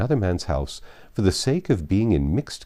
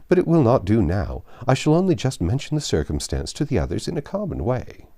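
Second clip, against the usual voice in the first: cheerful Mr Weston; 2 semitones higher than usual. Acted. Father telling his wife and Emma that Frank is coming, delighted. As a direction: bubble over with happy news.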